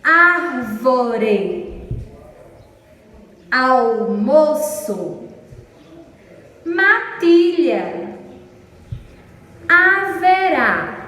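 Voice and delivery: "Árvore, almoço, matilha, haverá" slowly as ár-vo-re, al-mo-ço, ma-ti-lha, ha-ve-rá; split into three syllables. Shown as a demonstration. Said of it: "Trissílabas quando ela possui três. Observem os exemplos".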